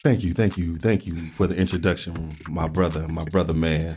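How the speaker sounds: low, smooth seductive voice; sexy voice. Acted. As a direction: purr it to the ladies. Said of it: "put on my sexy voice".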